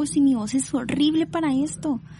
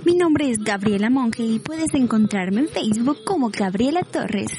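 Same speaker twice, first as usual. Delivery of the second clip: upbeat sign-off. Shown as a demonstration. Signs off the voice demo.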